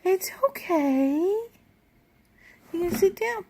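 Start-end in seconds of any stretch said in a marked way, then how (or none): 0.0-1.2 whispering. Real, not acted. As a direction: hush him gently. Comforting the baby.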